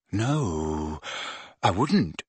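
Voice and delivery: very quiet. Acted. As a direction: say it small and shy. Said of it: "in a very quiet voice".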